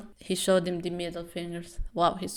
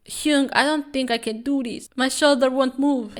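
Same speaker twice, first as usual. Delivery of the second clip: higher, pleading faked injury; fake whining; 6 semitones higher, 4 dB louder than usual. Champion faking injury to his manager, higher whine. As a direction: whine like you're faking hurt.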